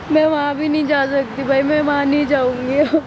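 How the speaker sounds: real tears while refusing to go back; tearful. Real, not acted. Girl tells the vlogger she won't go home, tearful.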